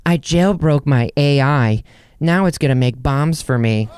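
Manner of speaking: sitcom character. Pretend. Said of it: "how it would be on a sitcom".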